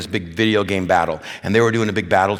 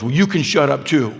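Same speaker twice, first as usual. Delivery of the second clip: slightly raised, mildly cheeky comeback; mild mock defiance, pitched up; boy's retort to sister; 5 semitones higher, 4 dB louder than usual. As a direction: lightly voice a boy talking back. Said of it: "looked at his older sister and goes".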